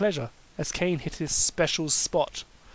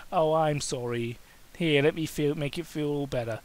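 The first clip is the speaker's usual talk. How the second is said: cooing. Acted. Kane soothing his hurting lover, gentle coo. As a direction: coo to comfort him. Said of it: "Kane cooed".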